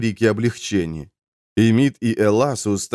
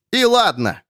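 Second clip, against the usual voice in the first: higher voice, suddenly bold; defiant cry; 12 semitones higher than usual. A narrator's reading. Accused man suddenly braves the nun, crying out. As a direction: throw it back boldly. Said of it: "крикнул Эмид".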